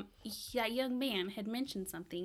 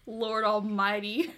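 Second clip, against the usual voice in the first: exasperated; 9 dB louder, slower than usual. Real, not acted. Player reacts to bad roll.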